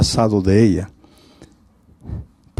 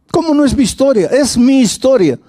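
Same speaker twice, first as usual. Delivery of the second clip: indignant woman; 12 semitones higher, 4 dB louder than usual. Retold or imitated. Woman insists on her story.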